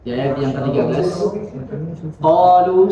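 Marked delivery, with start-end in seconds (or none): 2.2-2.9 Qalu said with nose held shut; pinching nose. Shown as a demonstration. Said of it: "sambil tutup hidung".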